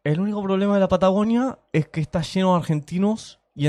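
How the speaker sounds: imitating a cheto upper-class Argentine accent; posh argentine spanish. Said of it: "Me encanta la imitación del tono de Cheto".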